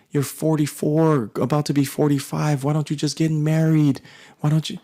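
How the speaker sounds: nagging mom. Retold or imitated. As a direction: press him again and again like a pushy mom. Mom nagging son to marry.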